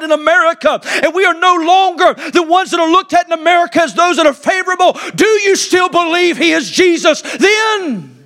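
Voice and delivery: fiery preacher building to a challenge; full-force preaching. Real, not acted. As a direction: preach it hard and rising.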